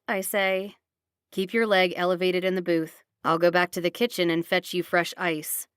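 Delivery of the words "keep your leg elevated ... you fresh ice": low, stern father voice; gruff man voice. Acted. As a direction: order her kindly but gruffly. Logan's voiced lines.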